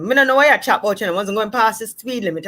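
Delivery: quick, combative patois comeback; aggression. Acted. Driver arguing with police officer, quick patois aggression. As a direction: argue back fast in Jamaican patois. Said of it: "this aggression".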